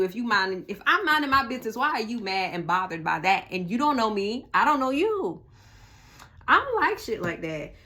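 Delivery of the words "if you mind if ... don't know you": higher, louder mock confrontation; indignant challenge. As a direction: push back at a nosy hater, voice rising. Voicing annoyed challenge to haters.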